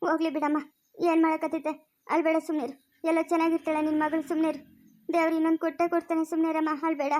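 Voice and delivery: subdued, resigned comforting; consoling. Acted. Confidante tells the crying mother to let it go, consoling. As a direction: console someone in tears, keeping it restrained.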